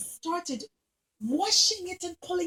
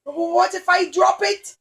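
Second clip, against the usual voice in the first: worried clown; 5 dB louder than usual. Acted. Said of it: "And the clown said".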